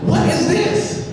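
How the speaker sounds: high, drawn-out outraged question; appalled demand. Retold or imitated. Crying girl confronts Jeff over his grades, appalled.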